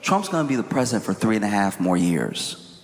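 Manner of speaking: low, measured mock threat; threatening. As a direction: deliver it as a veiled warning, pitched low. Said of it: "he tweets out threatening Republicans specifically".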